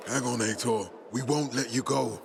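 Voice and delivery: low, steadying voice; urgent reassurance. Acted. Soldier urging wounded Aitor to hold on, low reassurance. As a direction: drop the pitch to steady a wounded comrade.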